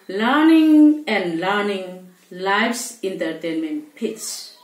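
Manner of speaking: measured verse reading, long pauses between phrases; poem recitation. Acted. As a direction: recite line by line, letting each phrase fall. Recites poem after introduction.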